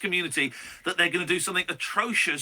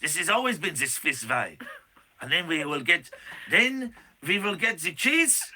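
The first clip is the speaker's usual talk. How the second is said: hammed-up Swiss lament, a bit higher; playful fake Swiss voice, slightly raised; mock Swiss accent; 3 semitones higher, 3 dB louder than usual. Host voicing a Swiss citizen about Paul's return, mock Swiss accent. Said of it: "It's a Swiss accent".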